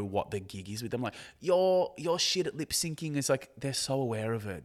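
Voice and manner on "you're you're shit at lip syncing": mock criticism. Host mimicking people who miss the joke, mock criticism. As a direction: jeer it like a clueless critic.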